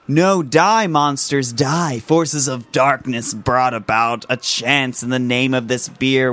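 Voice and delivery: movie trailer announcer read; dramatic trailer voice. Acted. Reads movie-trailer style label blurb.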